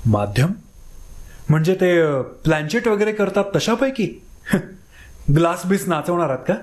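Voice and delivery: a touch of scorn, with a small laugh; lightly mock the idea. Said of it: "हेटाळणीच्या सुरात म्हणाला". (हलकी हेटाळणी करत)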